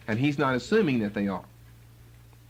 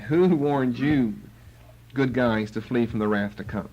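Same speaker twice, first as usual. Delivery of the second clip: sarcastic and ironic; 2 semitones lower than usual. Retold or imitated. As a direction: ask it with ironic disdain. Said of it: "very sarcastically and ironically".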